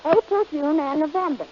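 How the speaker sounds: mock-serious poetry reading; reciting a poem. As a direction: proudly declaim a silly rhyme. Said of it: "how do you like my poem".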